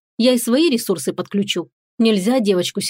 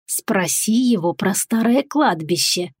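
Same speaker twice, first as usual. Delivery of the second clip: sly giggling; slower than usual. Acted. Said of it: "лукаво хихикнул переговорщик".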